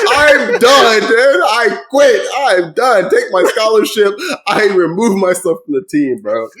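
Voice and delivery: quitting player. Retold or imitated. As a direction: whine that you quit, laughing.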